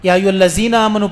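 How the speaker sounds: الذین said "allazina" with a buzzing z; dhal as za. Retold or imitated. Imitating elderly people's recitation, dhal as za. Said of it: "ذا پڑھتے ہیں".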